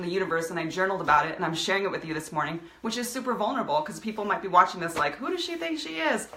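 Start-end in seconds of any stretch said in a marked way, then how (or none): 5.2-6.3 high, sneering voice of a judging viewer; mocking judgment. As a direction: mimic a snide onlooker, pitched up. Imagined viewers judging her.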